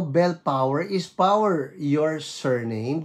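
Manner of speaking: delighted repeat of Bell Power; admiring. Shown as a demonstration. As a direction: savour a lovely name. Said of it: "Ang ganda naman ng pangalan mo".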